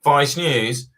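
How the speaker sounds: sneering surprise. Retold or imitated. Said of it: "he's like".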